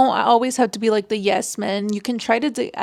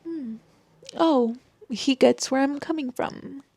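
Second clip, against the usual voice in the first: soft, hushed realization; quietly calming down; 3 semitones higher, 5 dB quieter than usual. Retold or imitated. Girlfriend realizing her boyfriend understands, soft and hushed. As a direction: murmur it as your anger melts. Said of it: "I'm kinda like".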